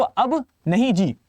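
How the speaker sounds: slow, drawn-out "अब नहीं जी". Shown as a demonstration. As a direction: stretch out अब नहीं जी lazily. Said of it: "एबनेगेशन ऐसे देखो". (धीमे खिंचे स्वर में "अब नहीं जी")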